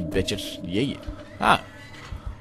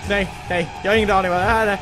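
normal talking voice

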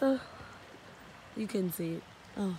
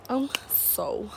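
breathless whisper; 6 dB quieter than usual. Real, not acted. Exhausted climbing steep hill.

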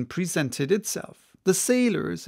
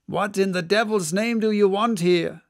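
roar; 4 semitones higher than usual. Acted. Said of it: "roared the Guernsey man".

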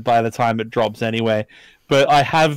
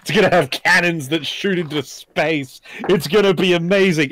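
boastful; 3 semitones higher than usual. Pretend. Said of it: "which is just like".

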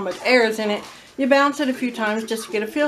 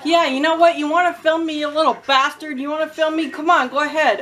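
higher, heated mock scolding; telling him off; 4 semitones higher than usual. Mother confronting the kid filming her, heated telling-off. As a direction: replay the telling-off with heat. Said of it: "I go off on this kid".

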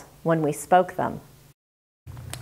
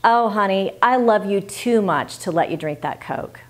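loving, sincere. Shown as a demonstration. Mother lovingly telling her child no to Coke, tender. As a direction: tell your child gently that you care. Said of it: "So try this and mean it".

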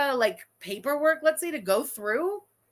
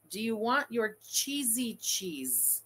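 slow, softer mock babying; imitating the husband; 6 dB quieter, slower than usual. Husband asking wife about cheese, slow mocking imitation. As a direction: drawl it out with disdain. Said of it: "your husband looks at you and says".

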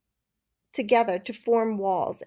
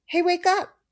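a sharp shout, much higher and louder; loud call; 10 semitones higher, 7 dB louder than usual. A narrator's reading. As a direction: jolt him awake. Shaking him awake.

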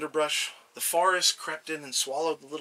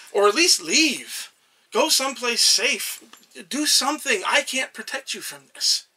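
urgent little god warning; 5 dB louder than usual. Acted. Little god warns of coming war.

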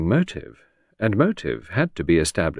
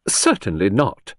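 "Certainly not", slow and emphatic; slow, weighted "Certainly not"; emphatic denial; slower than usual. A narrator's reading. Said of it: "The answer was emphatic".

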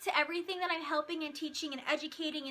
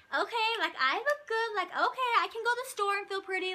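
confident client; 4 semitones higher than usual. Retold or imitated. Client strutting out feeling confident.

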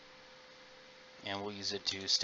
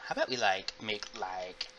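put-on valley girl voice. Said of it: "I sound like a valley girl".

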